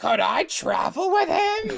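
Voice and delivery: drawn-out, very high, slow, swooping sing-song with creak. Reading a story aloud, doing May asking to travel: classic May voice. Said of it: "that's the classic May voice".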